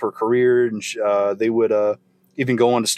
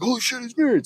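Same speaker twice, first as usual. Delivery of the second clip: mock shock; 13 semitones higher, faster than usual. Everyone's shocked reaction retold.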